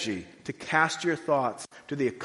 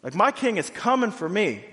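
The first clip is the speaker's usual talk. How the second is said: much higher and louder, ringing certainty; triumphant Paul; 7 semitones higher, 6 dB louder than usual. Retold or imitated. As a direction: proclaim it like victory is already won. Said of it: "Paul knows, like".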